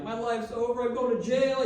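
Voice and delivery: high, loud mock despair; panicking kid sure they are doomed; hammed-up tearful panic; retold panic. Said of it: "I'm panicking".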